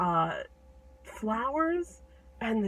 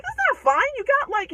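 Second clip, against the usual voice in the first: high, loud indignant objection; acted frantic protest; upset protesting giant; 9 dB louder than usual. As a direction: argue back in alarm. Giant protests about the wounds.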